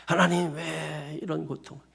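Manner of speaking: slow, drawn-out mock lament; questioning God. Pastor voicing a sufferer tossing a question at God, drawn-out plea. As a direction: stretch out the "why" as a plea tossed up to God. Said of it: "그냥 던져보는 거예요".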